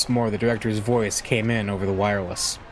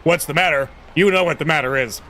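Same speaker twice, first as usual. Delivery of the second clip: louder, threatening reread as the father; menacing reread; 4 semitones higher, 4 dB louder than usual. Shown as a demonstration. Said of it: "Let me reread that".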